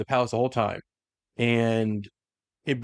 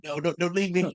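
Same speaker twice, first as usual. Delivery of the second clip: higher, lightly acted crying plea; mock tearful plea; 6 semitones higher than usual. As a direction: plead as if crying, half-acted. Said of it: "Gargo's crying".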